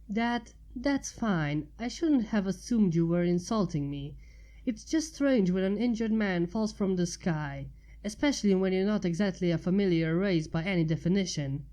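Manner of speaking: a hint of a young mare's voice, reasoning; lightly voiced Twilight. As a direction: explain herself, a bit flustered. Twilight voice long run.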